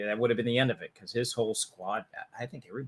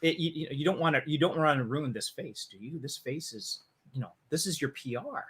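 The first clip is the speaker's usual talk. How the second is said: weaselly coward. Retold or imitated. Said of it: "such a swarmy, slimy, weaselly guy".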